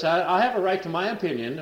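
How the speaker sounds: mock storming off. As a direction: huff it out indignantly. Man storms off to bedroom.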